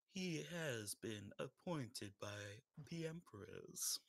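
slow, menacing serial killer voice. Acted. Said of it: "I'm going too deep in the serial killer voice".

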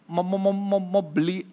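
imitated stutter throughout the tale; gagap. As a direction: stammer through the story, repeating first sounds. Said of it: "orang gagap ini bilang". (menirukan orang gagap bercerita)

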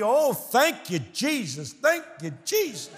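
imitating joyful elder. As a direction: praise Jesus like a proud grandmother. Old congregant praising the student.

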